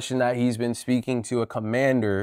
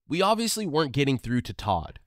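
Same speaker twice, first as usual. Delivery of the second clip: higher, lifted voice-over delivery; storytelling voice-over, pitched up; documentary narration; 5 semitones higher than usual. A narrator's reading. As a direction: narrate the twist to the viewers.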